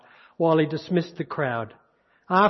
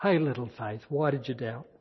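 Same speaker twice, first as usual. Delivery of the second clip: tender; 4 semitones lower, 6 dB quieter than usual. Acted. Voicing Jesus tenderly, softer.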